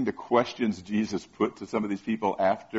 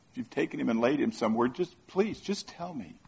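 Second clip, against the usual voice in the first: Mary pleading; 6 dB quieter than usual. Acted.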